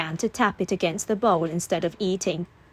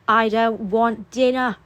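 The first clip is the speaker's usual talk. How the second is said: put-on slow whiny child voice; whining child; 3 semitones higher, 4 dB louder than usual. A narrator's reading. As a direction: whine it like a sulky boy. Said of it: "he whined".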